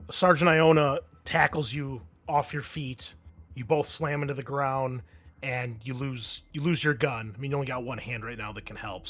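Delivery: ordinary talk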